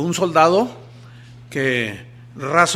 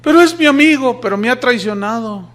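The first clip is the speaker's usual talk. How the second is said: much higher and louder pleading cry; desperate protest; 7 semitones higher, 7 dB louder than usual. Acted. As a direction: plead hard against the order. Pleading objection to an order.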